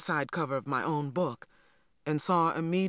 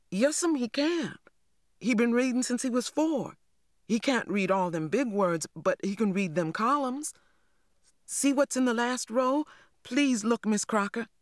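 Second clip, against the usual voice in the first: put-on high, insistent child's voice; pleading young girl; 7 semitones higher than usual. A narrator's reading. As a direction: beg the teacher to look. Girl defends her brother.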